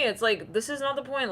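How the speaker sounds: ordinary delivery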